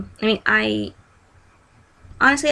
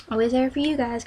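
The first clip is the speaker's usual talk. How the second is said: sassy; 4 semitones higher than usual. Real, not acted. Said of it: "I know I sounded sassy".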